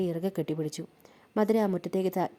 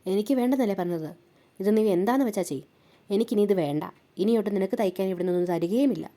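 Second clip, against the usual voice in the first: louder, curt and dismissive; irritated refusal; 4 dB louder than usual. Acted. Sheela refusing Bhadra's dress, loud and dismissive. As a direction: shut her down for good.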